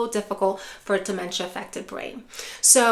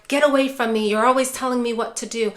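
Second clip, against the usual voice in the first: louder, fast irritated complaint; angry outburst; 3 dB louder, faster than usual. Retold or imitated. Parent scolds bossy caregiver, fast angry complaint. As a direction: shove the words out in frustration. Loved one lashing out, quoted.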